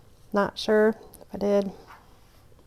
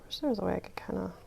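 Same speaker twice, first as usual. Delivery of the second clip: whispering; 8 dB quieter than usual. Real, not acted. Whispering while crafting.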